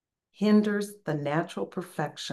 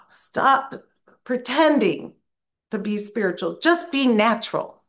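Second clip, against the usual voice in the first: Aziza quoted; 5 semitones higher, 6 dB louder than usual. Retold or imitated. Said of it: "which she's saying".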